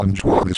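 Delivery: "enjoy this" with a swoosh where the th begins; glitched "enjoy this". Shown as a demonstration. Example of a word it can't say, "enjoy this" with a swoosh. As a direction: run "enjoy" into a noisy swa before "this". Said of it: "then it sounds like the schwa sound".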